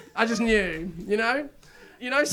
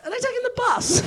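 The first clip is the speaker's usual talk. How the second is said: sarcastic question; 13 semitones higher than usual. Retold or imitated. Mocking question to police.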